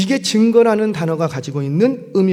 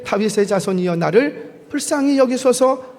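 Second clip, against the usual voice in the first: restrained imitation of crying out for mercy; louder plea; 4 semitones higher than usual. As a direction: read as a mild cry, rising higher. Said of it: "더욱 크게 소리질러 이르되".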